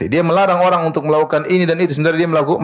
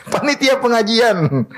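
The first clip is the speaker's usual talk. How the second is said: laughing; 9 semitones higher, slower than usual. Real, not acted. Preacher laughs repeating the answer.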